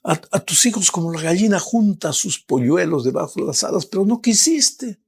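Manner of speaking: ache over the ones who refused; pleading Jesus. Acted. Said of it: "Eso es lo que le dijo a Jerusalén".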